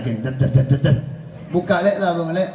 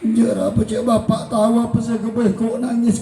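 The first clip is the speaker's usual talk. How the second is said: spoiled retort; 3 semitones higher than usual. Retold or imitated. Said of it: "Kita tanya boleh".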